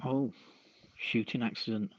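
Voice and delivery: ordinary talk, nothing marked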